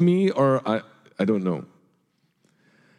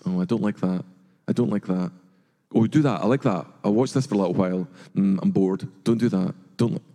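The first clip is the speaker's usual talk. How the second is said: bored viewer; 4 semitones lower than usual. Acted. Bored viewer voiced, quieter, lower.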